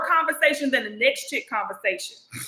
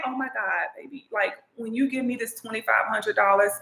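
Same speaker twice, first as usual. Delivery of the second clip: put-on sweet-talking girlfriend; 4 semitones lower than usual. Shown as a demonstration. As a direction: coo over the cash he'll give you, voice dropped low. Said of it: "you tell them what it is you're gonna do with their money".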